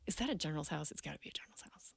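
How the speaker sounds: hushed whisper to herself. Retold or imitated. Wondering aloud at a general's house, whispered. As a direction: breathe it out, barely voiced.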